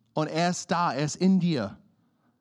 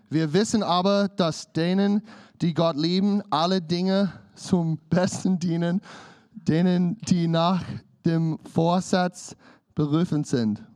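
scripture reading. Acted. Reads scripture aloud.

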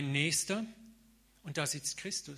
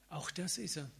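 soft, quieter reassurance; gently voicing Jesus; 4 dB quieter than usual. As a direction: say it softly as Jesus. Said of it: "Aber Jesus sagt, hey". (sanft als Jesus gesprochen)

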